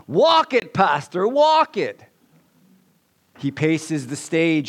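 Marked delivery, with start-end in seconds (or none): 0.1-2.0 high, loud cheering back at the pastor; congregation's response. Acted. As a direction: egg the pastor on like an excited flock. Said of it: "And the congregation responds".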